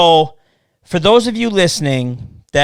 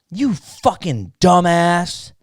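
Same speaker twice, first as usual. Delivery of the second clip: drawn-out, higher imitated insult; mock yelling; 4 semitones higher, much slower than usual. Imitating people messaging him about his collection, mock yelling. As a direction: imitate an irate messager, stretching the words. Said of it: "What are you yelling for?".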